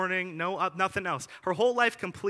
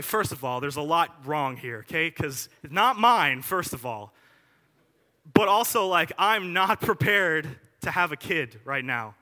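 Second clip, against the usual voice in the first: flustered protest; 6 dB louder than usual. Retold or imitated. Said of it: "I'd be like".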